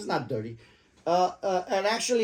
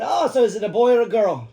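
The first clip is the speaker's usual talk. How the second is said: trying to be nice; 5 semitones higher, 6 dB louder than usual. Retold or imitated. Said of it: "I was trying to be nice".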